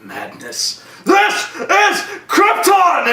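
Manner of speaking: mock 300 shout. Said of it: "Zod to go".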